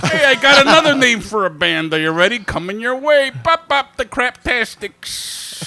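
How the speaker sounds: loud, high Chicago pitchman; Chicago accent. Retold or imitated. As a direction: announce it like a cheesy Chicago guy. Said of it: "Brian voice continues".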